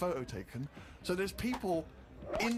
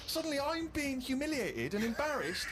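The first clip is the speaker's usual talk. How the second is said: indignant rant; 10 semitones higher, 5 dB louder than usual. Real, not acted. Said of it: "by now I was just furious".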